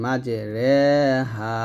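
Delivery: রে said with an open e sound, not রি. Shown as a demonstration. Teacher shows how to read the letter, clear রে. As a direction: say রে, never রি. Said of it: "মাঝে রি না বলে রে বলতে হবে".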